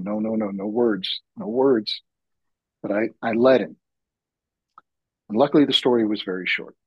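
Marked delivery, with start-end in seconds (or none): 0.0-2.0 high, pleading no no no; a panicked voice in his head begging for silence; half-sung high inner refusal; inner voice protesting. Retold or imitated. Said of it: "I had the voice in my head going".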